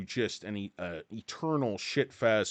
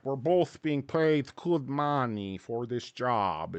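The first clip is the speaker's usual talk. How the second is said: slow mock Russian accent; slower than usual. KGB defending himself to his co-star, Russian accent. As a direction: stretch each word with a thick Russian accent. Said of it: "is that a Russian accent you're doing there".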